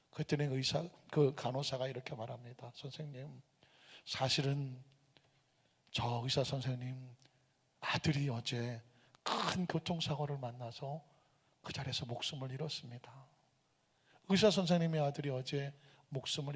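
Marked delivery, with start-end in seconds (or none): 2.7-13.1 grave nurse. Retold or imitated. Nurse telling the angry father, soft and grave. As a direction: let the bad news sink in gently. Nurse reveals doctor's son died.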